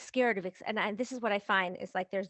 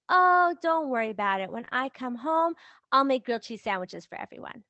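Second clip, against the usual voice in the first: higher, louder breezy reassurance; lightly acted easygoing spouse offering a fix; obliging husband; 3 semitones higher, 5 dB louder than usual. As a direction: play a cheerfully helpful husband. Acting the obliging, oblivious husband.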